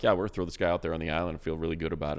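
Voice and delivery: quick, breezy confident team talk; a hint of a confident coach, fast. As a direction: rattle it off like a sure GM. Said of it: "guy you feel like".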